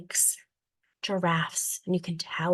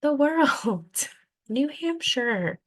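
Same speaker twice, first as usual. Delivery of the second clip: put-on kids shouting answers; 7 semitones higher, much slower than usual. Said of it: "spout out".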